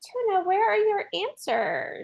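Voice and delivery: high-pitched call to a missing player. Real, not acted. Co-host chasing a player's late answers, calling out high. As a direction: call out for someone, pitched well up.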